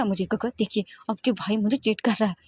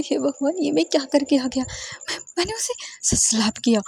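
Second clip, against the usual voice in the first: higher, rushed panic over what he just did; panicked disbelief; 6 semitones higher than usual. Acted. Wei Ying panicking alone in the bathroom, higher panicked voice. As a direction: gasp it out like you can't believe your own hand.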